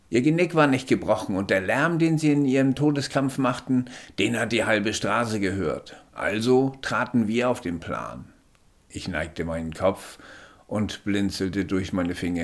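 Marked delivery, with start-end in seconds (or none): 0.1-8.3 höher und lauter, bestimmter Sanitäter. Acted. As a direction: fordert den Patienten energisch auf liegen zu bleiben. Sanitäter erklärt dem Patienten. (Sanitäter beugt sich über den Patienten, höher und lauter)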